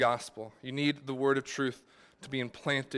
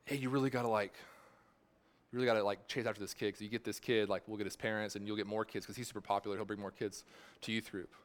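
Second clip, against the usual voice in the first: softer, lower scheming pastor; hushed pastor; 4 semitones lower, 7 dB quieter, faster than usual. Retold or imitated. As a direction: quietly advise like a calculating pastor. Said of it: "I heard the words come out of my pastor's mouth".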